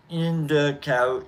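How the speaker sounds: "indica" stretched slowly into "in-da-cow"; sounded-out wordplay. Shown as a demonstration. Showing viewers the indica pun, slowly sounded out. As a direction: draw out "indica" so it sounds like "in the couch". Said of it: "So you're stuck in the couch".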